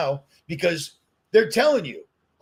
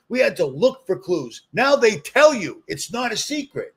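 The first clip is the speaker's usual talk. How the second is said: heated rant; 3 semitones higher than usual. Real, not acted. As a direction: let the frustration boil over. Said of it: "I'm getting a little heated".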